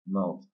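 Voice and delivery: "Mouth" as an unstressed word ending; weak syllable. Shown as a demonstration. Teacher showing a weak final syllable, "Mouth" left unstressed. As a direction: keep "Mouth" reduced. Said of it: "c'est une syllabe qui est faible aussi".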